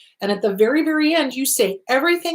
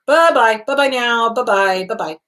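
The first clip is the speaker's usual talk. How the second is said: breezy dismissal. Acted. Speaker shooing a thought away repeatedly, breezy and fading.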